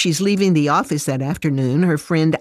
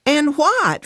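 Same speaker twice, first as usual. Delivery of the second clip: high, exasperated retort; raised voice; 12 semitones higher than usual. A narrator's reading. Fran challenges her friend's question, exasperated raised voice. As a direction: snap back with pitch jumping up. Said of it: "Fran raises her voice".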